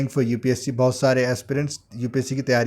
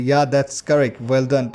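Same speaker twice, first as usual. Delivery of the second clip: encouraging praise; much slower than usual. Shown as a demonstration. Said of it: "encouragement करने के लिए".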